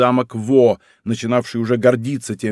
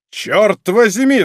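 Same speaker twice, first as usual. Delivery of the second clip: slow, louder, stamping exclamation; frustrated cry; 7 semitones higher, 4 dB louder, much slower than usual. A narrator's reading. Musketeer curses, stamping his foot in vexation. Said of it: "вскричал мушкетёр, топнув ногой".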